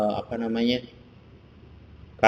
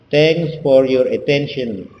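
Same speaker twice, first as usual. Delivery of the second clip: slow and a bit louder, every word clear; slow, careful model phrase; 3 semitones higher, 5 dB louder, slower than usual. Shown as a demonstration. Teacher models how to close an introduction, slow and clear. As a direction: show the class the closing line slowly.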